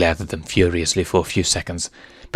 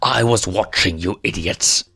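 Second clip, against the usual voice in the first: menacing Scar. Acted.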